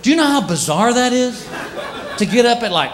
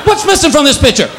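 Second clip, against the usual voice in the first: mock outraged cat; 5 semitones higher than usual. Neutered cat complaining.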